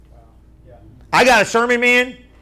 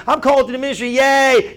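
mock-excited cheer, pitched higher; happy new recruit; 4 semitones higher than usual. Preacher voicing a newly called minister, happily excited. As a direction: act out naive delight at being called. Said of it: "everybody was gonna be happy".

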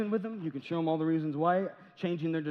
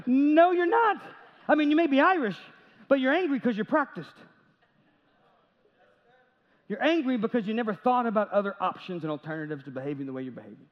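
firm retort; 3 semitones higher than usual. Retold or imitated. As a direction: set him straight, big at first, then calmer. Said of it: "And I'm like".

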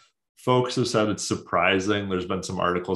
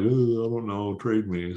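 put-on French Canadian accent; 3 semitones higher than usual. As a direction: lightly do a French Canadian hockey player shrugging off trade talk. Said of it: "That's my best, uh, French Canadian accent".

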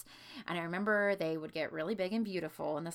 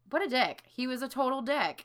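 indignant; 7 semitones higher, 7 dB louder than usual. Real, not acted. Indignant outburst about babysitter.

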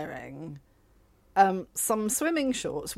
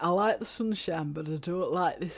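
mock Brit-abroad accent; put-on British accent; 2 semitones lower than usual. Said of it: "I don't know where that accent went".

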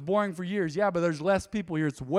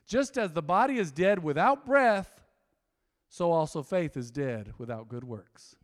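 scripture reading; 3 semitones lower than usual. Shown as a demonstration. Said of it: "Let's go to James two twenty-six".

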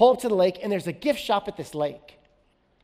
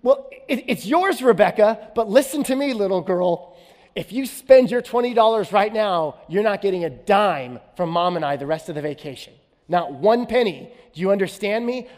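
raised, higher stern father laying down the law; stern dad lecture; 3 semitones higher, 6 dB louder than usual. Retold or imitated. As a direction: scold her firmly, louder and higher. Father scolding daughter about money.

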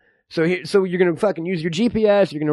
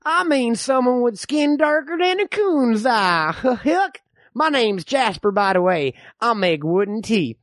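lightly voiced old Texan codger; old man. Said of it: "I'm the old man".

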